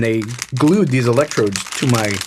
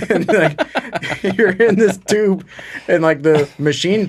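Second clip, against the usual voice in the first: laughing while talking; 7 semitones higher, much slower than usual. Real, not acted. Still laughing while describing the tube.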